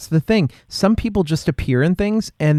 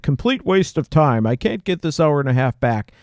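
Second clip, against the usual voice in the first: grumbling reviewer. Retold or imitated. Reviewer on Redbox complaining about a bad movie, disgusted. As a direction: gripe like a let-down renter. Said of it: "they're like".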